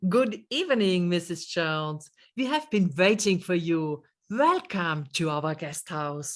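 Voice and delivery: unhurried, friendly greeting to a late guest; warm welcome. Shown as a demonstration. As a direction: greet her kindly, taking your time. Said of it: "Do you hear the difference?".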